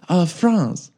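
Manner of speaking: hesitant mock French accent; fake French accent. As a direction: say it with a slight put-on French accent. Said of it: "it was like my French accent now".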